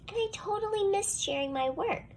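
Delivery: a high whispered complaint. A narrator's reading. Child narrator whispers about missing her turn.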